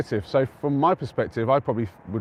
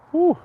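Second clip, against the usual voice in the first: short, high-pitched "woo"; quick woo; 9 dB louder than usual. Real, not acted. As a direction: let out a brief woo. Streamer whoops during a pause.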